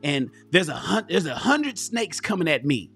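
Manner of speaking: lightly voiced boxer's oratory, building point by point; Muhammad Ali. Host retells the snakes analogy from an interview, light Muhammad Ali impression. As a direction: attempt a hint of the champ's emphatic storytelling. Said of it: "I'm trying to do my Muhammad Ali impression".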